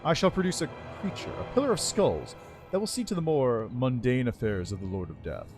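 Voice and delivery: lightly voiced regal undead lich; haughty undead lord, measured and cool. Lich speaks in game dialogue.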